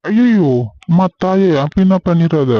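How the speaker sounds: husband begs wife not to withhold likes, mock-pleading.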